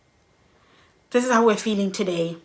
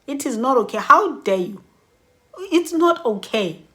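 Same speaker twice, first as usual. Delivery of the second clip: indignant protest; 4 semitones higher than usual. Retold or imitated. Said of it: "a day where I feel".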